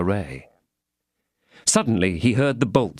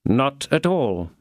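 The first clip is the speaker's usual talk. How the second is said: calm; 4 semitones higher, much slower than usual. Acted. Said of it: "calmly replied Athos".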